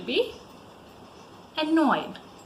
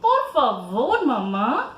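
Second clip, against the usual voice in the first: put-on child asking; 4 dB louder than usual. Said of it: "you say to Mama".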